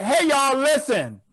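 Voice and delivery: loose, offhand "Hey, y'all, listen"; casual flight attendant call. Retold or imitated. Mimicking the Spirit flight attendant to the audience, offhand call. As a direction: call to the cabin like you don't care. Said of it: "That's how she said it".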